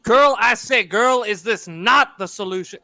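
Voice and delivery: loud drawling rooster voice; booming Southern rooster; Foghorn Leghorn. Pretend. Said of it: "my Foghorn Leghorn impression".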